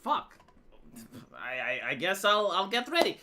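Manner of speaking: a hushed, dazed take on the news; stunned retold reaction. Retelling his shock at Gorka's follower count, softly stunned. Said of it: "And I'm like".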